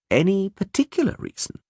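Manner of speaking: calm, measured gentleman. A narrator's reading. Regis voiced.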